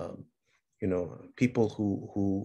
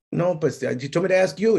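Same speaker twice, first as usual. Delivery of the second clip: put-on high whiny kid voice; kid answering; 7 semitones higher than usual. Boy telling dad that mom sent him, whiny. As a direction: whine back like a small boy. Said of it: "boy answers dad".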